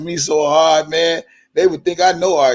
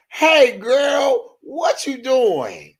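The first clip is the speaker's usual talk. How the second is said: high, sing-song gossip voice; high mock phone gossip; Boom Boom gossiping; 7 semitones higher, slower than usual. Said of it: "boom boom talking to Angie Walker".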